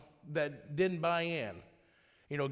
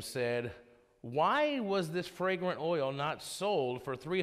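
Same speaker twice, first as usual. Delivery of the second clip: scripture reading; 2 semitones lower than usual. Acted. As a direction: read the passage with weight. Reads scripture passage aloud.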